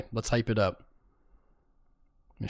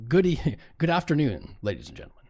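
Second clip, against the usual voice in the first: Powell impression; 3 semitones higher than usual. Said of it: "He will start with".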